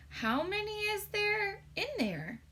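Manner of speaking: high, slow put-on giant voice; a curious giant asking slowly; giant's voice. A narrator's reading. Giant asking Sophie in a high slow voice.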